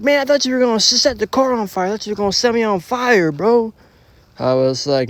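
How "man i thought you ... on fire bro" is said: high, hurried, still scared; shaken friend. Retold or imitated. Friend explaining why he ran, high and scared. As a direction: spill out the fear, pitched up.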